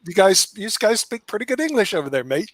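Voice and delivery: playful Australian twang ending on mate; mock Australian. Ribbing the Australian guest in mock Australian accent. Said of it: "good to go with the Australian".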